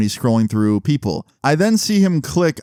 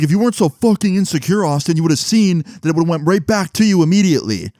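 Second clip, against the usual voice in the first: defensive gaslighting; 5 semitones higher than usual. Retold or imitated. Jeremy turning the blame on Austin, a lightly voiced indignant defense. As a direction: turn the blame back on him indignantly. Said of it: "He's like".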